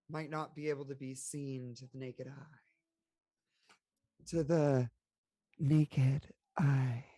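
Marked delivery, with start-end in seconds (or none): 4.3-7.1 drawn-out, louder mock-sultry voice. Player repeating her phrase for the table, sultry. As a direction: lean into a put-on sultry purr. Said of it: "'Cause we're still in sultry mode".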